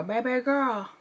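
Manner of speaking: exaggerated mock Chinese accent on "bay-bye gurl"; caricatured Chinese accent, drawn from the odd spelling; mock Chinese girl accent. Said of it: "It's like a ghetto Chinese girl".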